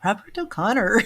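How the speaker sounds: badly attempted Irish accent. Medium retrying the name she hears, clumsy Irish accent. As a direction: another playful stab at an Irish accent. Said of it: "I can't do it".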